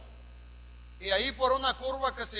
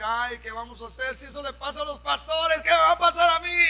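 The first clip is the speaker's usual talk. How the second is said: imitating a panicked churchgoer, rising higher and louder at the end; mock frightened wail; 3 semitones higher, 5 dB louder than usual. Pastor mimicking a fearful church member, a mild mock lament. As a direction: play the scared believer lightly. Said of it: "no se puso a llorar y decir".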